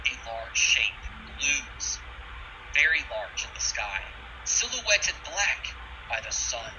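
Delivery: slow, hushed scene setting; game master narration. A narrator's reading. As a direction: paint the vista slowly.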